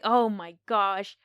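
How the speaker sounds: on the edge of the seat, retold; gripped moviegoer. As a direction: draw out the shock, mildly hammed-up. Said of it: "And I'm like".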